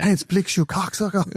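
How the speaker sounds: high, mocking puppet voice; a squeaky comic insult; puppet mockery. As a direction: sneer it like a Team America puppet. Mocking puppet Hans Blix line.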